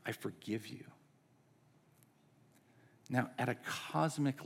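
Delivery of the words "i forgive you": hushed, low, sincere pardon; gentle forgiveness. Retold or imitated. Someone pardoning us when we've messed up, hushed and tender. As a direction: say it softly, straight to one person. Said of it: "look us in the eye and say".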